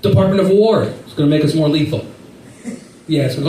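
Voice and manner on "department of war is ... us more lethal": higher, announcing drill leader voice. Retold or imitated. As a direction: address the troops like a sergeant. Military leader announcing run.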